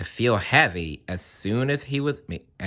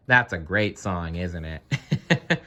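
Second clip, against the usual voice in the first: chuckling through the words; laughing; 3 semitones lower, slower than usual. Real, not acted. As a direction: say it with a real laugh. Reader laughs after song.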